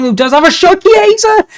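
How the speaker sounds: full-throated goal call; excited goal shout. Real, not acted. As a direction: voice soaring into a loud, high yell. Goal scored in game commentary.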